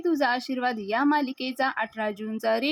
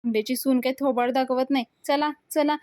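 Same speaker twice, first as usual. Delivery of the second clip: raised, mock shouting to the crowd; retold shout; 3 semitones higher than usual. Datta calls the guests to leave, in a mock shout. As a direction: call everyone out to leave, half acted. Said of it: "सगळ्यांना ओरडून सांगत".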